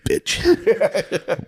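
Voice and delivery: muttered insult. Retold or imitated. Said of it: "Just putting a cup away".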